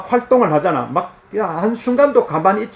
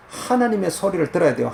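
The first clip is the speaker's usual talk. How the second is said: ordinary delivery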